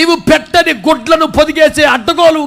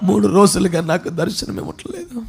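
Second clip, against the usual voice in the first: quiet, low, grieving lament; acted desolate lament, hushed and low; bereft Mary Magdalene; 5 semitones lower, 9 dB quieter than usual. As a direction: let it sink softly into loss. Mary grieving her absent Lord.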